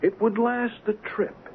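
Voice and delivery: high, slow mock voice for the shipowner; a mocking, drawn-out take on a careless boss; imitating Tarrier. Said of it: "Tarrier replied".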